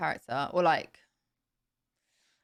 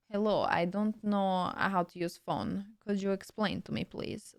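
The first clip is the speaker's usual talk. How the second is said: put-on Russian accent. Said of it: "Russian spy".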